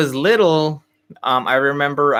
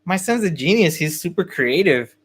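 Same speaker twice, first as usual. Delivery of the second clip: high, shocked protesting dad; dad defending his son to the teacher, shocked; indignant surprise; 5 semitones higher than usual. Retold or imitated. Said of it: "And my dad's like".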